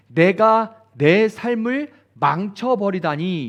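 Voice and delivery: mock self-pitying sigh over one's ruined life; self-pitying lament. Shown as a demonstration. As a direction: wallow in it slowly, lingering on 내가. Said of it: "이런 거예요".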